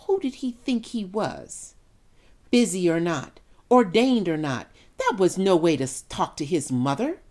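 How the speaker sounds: a wounded mother's outrage; indignant outburst. Acted. Mother indignant at son's snub.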